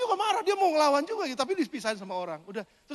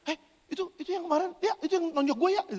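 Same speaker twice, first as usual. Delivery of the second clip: seruan kaget mengenali; 7 semitones higher, faster than usual. Retold or imitated. Menunjuk penyerangnya kepada Arya.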